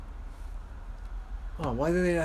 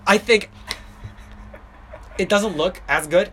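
spitting while talking; 4 semitones higher than usual. Real, not acted. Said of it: "I'm spitting all over here".

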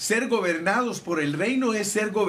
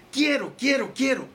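pleading cry; 5 semitones higher than usual. Acted. Pleading prayer acted out to God.

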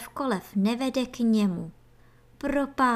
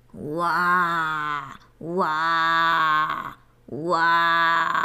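deep creature roars, getting louder; growing roars; 4 semitones lower, 4 dB louder, much slower than usual. Acted. Baby antlion roaring again, deep roars building louder. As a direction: roar three times, building up. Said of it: "bylo zase slyšet".

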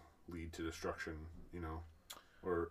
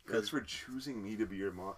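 mock sweet child; 2 semitones higher, 3 dB louder than usual. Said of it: "the crazy line".

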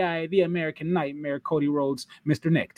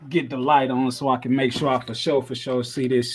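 ordinary talk, nothing marked

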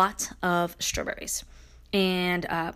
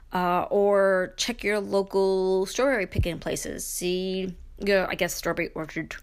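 mouth full. Real, not acted. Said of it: "There's something in my mouth".

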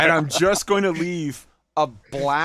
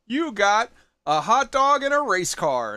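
mock teacher grading; 8 semitones higher, 5 dB louder than usual. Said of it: "It's like".

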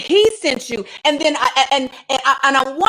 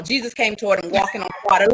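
matter-of-fact; 3 semitones lower, faster than usual. Shown as a demonstration. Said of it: "the Bible just reads that like that's normal".

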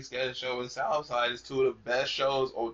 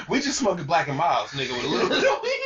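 fast, laughing through the words; 2 semitones higher, 5 dB louder than usual. Real, not acted. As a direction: laugh while mocking him. Mocking friend's weed habit.

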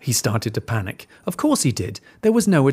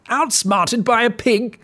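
sulking wolf; 11 semitones higher than usual. Acted.

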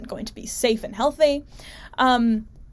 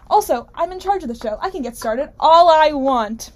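raised, higher and louder defiant outburst; real mild yelling; 5 semitones higher, 5 dB louder than usual. Real, not acted. Host defends her own rant to listeners, raised voice. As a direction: rant it out, a bit loud. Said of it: "Sorry for yelling".

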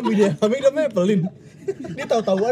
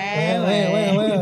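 wew sound; 3 semitones higher, 4 dB louder, much slower than usual. Pretend. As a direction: chirp the wews like a notification. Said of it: "suara wew lu".

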